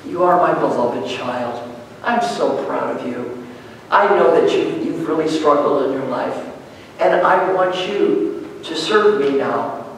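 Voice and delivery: soft, slow and tender, a calm divine voice; like God calling a son softly; gentle voice of God. Retold or imitated. God gently calling the angry student, soft and slow. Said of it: "he heard a voice saying".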